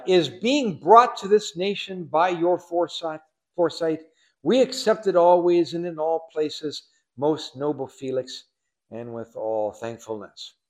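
butter up the governor with stately praise; put-on orator's voice. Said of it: "say this with a kind of a, a voice".

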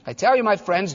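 "I tell you, my friends" said gently, falling at the end; loving address. Acted. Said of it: "this is the most loving man".

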